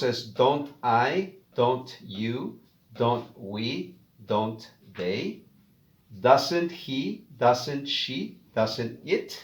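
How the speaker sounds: don't I, don't you each said slowly and clearly with a rising end; slow drill of each contraction; pronunciation drill. Shown as a demonstration. Teacher repeating the pronunciation of don't and doesn't for learners. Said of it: "Repito la pronunciación".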